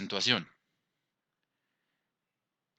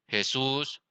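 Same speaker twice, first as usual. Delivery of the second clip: "Jesús" leaning on "sús"; "Jesús" with a stronger second syllable; stress on last syllable; 4 dB quieter than usual. Shown as a demonstration. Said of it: "tiene el acento en la última sílaba".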